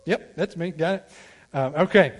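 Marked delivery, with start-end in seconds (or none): 0.0-1.1 mocking students. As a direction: tease the students who pretend to know. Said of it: "they're all like".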